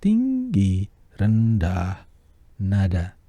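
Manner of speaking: Tinggi very high, rendah back down low; high then low. Shown as a demonstration. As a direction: leap up on Tinggi, drop on rendah.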